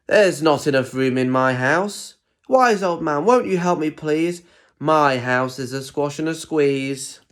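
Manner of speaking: a lightly voiced little old lady, pleading and fretful; grumbling old lady. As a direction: beg the wise old man for help, slowing on the refrain. Lady's pleading refrain, picture book.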